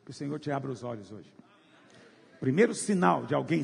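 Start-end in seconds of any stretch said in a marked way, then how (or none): 0.0-1.3 quiet prayer. Real, not acted. Short prayer over the listener.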